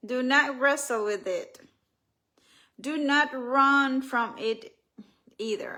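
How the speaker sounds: slow, deliberate inspirational reading; reading from her book. Acted. Author reading listeners her words on fear, deliberately paced. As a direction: read it out with weighty pauses. I'm gonna read something from the book.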